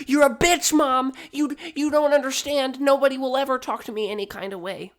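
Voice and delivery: high, loud mock teenage outburst; shrieking overdramatic kid; acted tantrum. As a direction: yell hysterically at mom, hammed up. Acts child screaming at mom.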